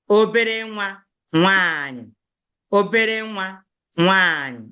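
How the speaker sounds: obere nwa nwanyị said slowly, each syllable apart; slow Igbo pronunciation. Shown as a demonstration. Teacher slows down so pupils hear each syllable. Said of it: "so that you see how to pronounce it".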